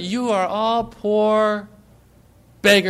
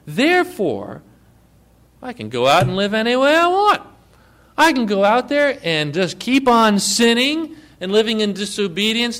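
mock careless believer; 3 semitones higher than usual. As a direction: ham up a careless churchgoer boasting he can sin freely. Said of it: "is to say this".

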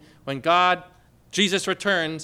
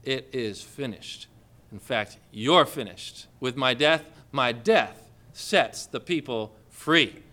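calm smiling Jesus; 6 semitones lower, slower than usual. Retold or imitated. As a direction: answer the jeering calmly with a smile. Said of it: "Jesus smiles and says".

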